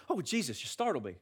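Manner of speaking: lightly startled, played down; a small, casual fright, acted in jest; mock mild startle. Disciples reacting too casually to Jesus, mock mild startle. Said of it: "but it wasn't that way".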